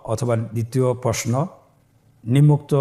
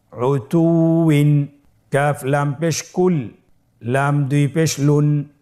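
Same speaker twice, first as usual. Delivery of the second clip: spelling drill. Shown as a demonstration. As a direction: call out each letter and vowel mark like a Quran teacher. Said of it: "উদাহরণগুলো এখন আমরা অনুশীলন করব".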